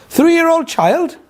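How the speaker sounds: high, slow questioning disbelief; incredulous. Retold or imitated. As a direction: stretch it out high in amazement. Retold disbelief at the candidate's age.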